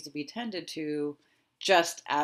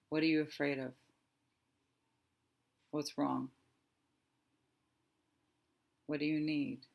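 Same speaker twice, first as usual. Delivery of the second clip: soft asking; 4 dB quieter than usual. Shown as a demonstration. Coach asks her fear gently what it needs. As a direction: ask softly what's wrong. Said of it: "noticed a shift and a difference".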